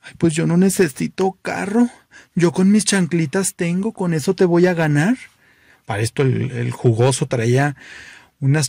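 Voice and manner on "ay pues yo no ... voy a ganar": a bit higher, breezy camp boast; flamboyant guy. Acted. Flamboyant guy boasting he'll win in his sandals, higher camp. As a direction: toss it off with camp confidence. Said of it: "jugoso replies".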